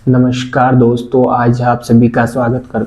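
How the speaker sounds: put-on slow, dull old-style anchor greeting; mock a stiff TV presenter, dragging it out; lightly mocking a stiff formal welcome; boring traditional host. Shown as a demonstration. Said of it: "वही traditional तरीका हो जाएगा बोलने का".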